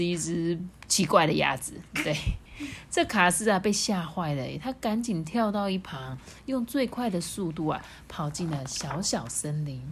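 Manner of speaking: softened storybook reading; expressive narrator, easing down softly; story narration. A narrator's reading. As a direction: tell it gently with pauses for suspense. Reads a story to children.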